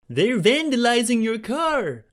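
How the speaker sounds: high slow panicked screech. A narrator's reading. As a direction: screech the alarm. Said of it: "Tommy screeched".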